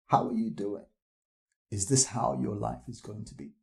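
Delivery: gentle voice. Acted. Jesus's voice speaking gently to a listener's heart, gentle. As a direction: ask it softly, as a quiet inner voice. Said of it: "that gentle voice that says".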